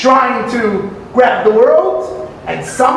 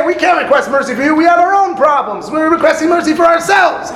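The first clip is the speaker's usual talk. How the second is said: higher, fast brush-off with raised voice; exasperated refusal; 6 semitones higher, faster than usual. Acted. Sun and moon turning the penitent down, exasperated. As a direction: push him away, overwhelmed.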